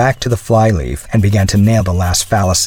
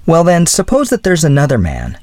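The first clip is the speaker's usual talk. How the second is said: lightly voiced young woman, pitched higher; higher girlish voice, confiding; earnest young woman; 10 semitones higher, 3 dB louder than usual. A narrator's reading. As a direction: raise the pitch for a hesitant, earnest girl.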